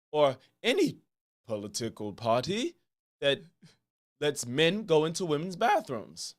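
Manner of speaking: attempted British accent, lightly done, pompous host; a talk-show host's mock British voice, barely shifted; Piers Morgan impression. Host opening his show for a random liberal, in a light British accent. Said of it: "I'ma show y'all my Piers Morgan impression".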